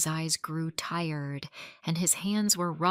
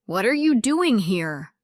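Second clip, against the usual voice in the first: loud, higher astonished question; surprised; 3 semitones higher, 9 dB louder than usual. A narrator's reading. Daniel finding Sarah at his door, shocked. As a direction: blurt it out in shock.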